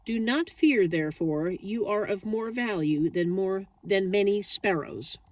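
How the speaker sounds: reading scripture gently aloud. Shown as a demonstration. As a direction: read it like a Bible passage. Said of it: "which I will read".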